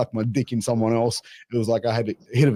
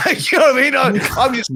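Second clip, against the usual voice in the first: laughing; 10 semitones higher, 5 dB louder, faster than usual. Real, not acted. Laughing high excited retelling.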